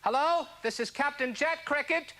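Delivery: a hint of a captain making announcements, unhurried; airline pilot impression. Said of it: "an impression of an airline pilot".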